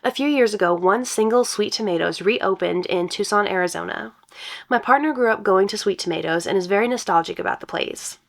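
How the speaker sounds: reading a post aloud; story narration. Acted. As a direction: brighter storytelling read.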